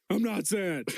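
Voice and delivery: mock indignant denial; protesting shouting man. Shouting man answers back, mock protest. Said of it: "go up to shouting, shouting men".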